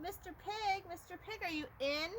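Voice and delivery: high sing-song call at the door. Acted. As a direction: sweetly call for the pig. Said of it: "I called".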